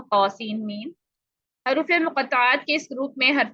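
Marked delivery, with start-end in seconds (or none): 0.0-0.9 तौ सीन मीम read as separate letters, each one distinct; letters apart. Shown as a demonstration. Teacher showing letters read one by one. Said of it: "ऐसे ही पढ़े जाते हैं जैसे अलग अलग हों".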